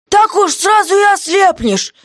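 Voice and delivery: guard voice, high and loud; jailer's voice, clearly put on; gruff jailer. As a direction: play the surly jailer shouting down.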